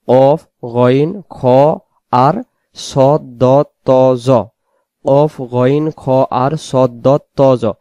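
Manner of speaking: slow recital of কফ, গইন, খ, সদ, দ, ত, জ with full rounded "o"; each letter thick and spaced out; heavy letters. Shown as a demonstration. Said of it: "ষাটটি অক্ষরকে মোটা করে পড়তে হয়".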